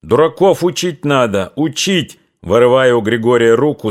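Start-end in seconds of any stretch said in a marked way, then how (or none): 0.0-2.2 high breathless shout. Acted. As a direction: yell it out of breath. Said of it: "задыхаясь, закричал кошевой".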